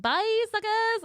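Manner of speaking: high, drawn-out mock taunt; retold sing-out jeer, slow and high; gloating shout. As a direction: crow it as you pass them. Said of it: "supposed to shout".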